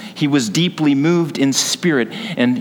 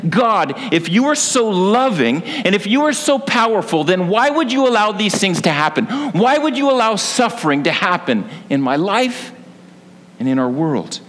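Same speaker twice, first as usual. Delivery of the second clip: raised, pitched-up mock cry of anger at God; preacher voicing an angry protest, higher and urgent; 5 semitones higher than usual. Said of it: "Have you ever screamed the protest in anger?".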